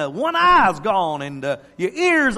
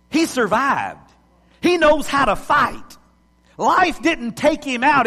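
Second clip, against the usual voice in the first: lions' voice; 4 semitones higher, 4 dB louder than usual. Retold or imitated. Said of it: "they go".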